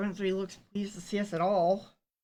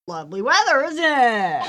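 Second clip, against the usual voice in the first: attempted British accent; 2 semitones higher, 7 dB louder than usual. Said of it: "I can't do this voice".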